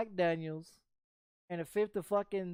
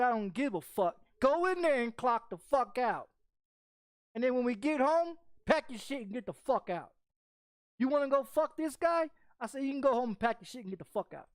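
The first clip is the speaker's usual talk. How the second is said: retold angry orders; 4 semitones higher than usual. Yelling at girlfriend.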